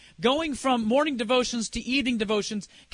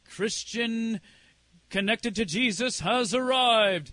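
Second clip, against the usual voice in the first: slow, spaced-out grand announcement; lightly hammed-up herald proclaiming an arrival; mock herald; slower than usual. Announcing herself after the fanfare, mock-grand herald.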